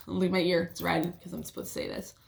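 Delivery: usual speaking voice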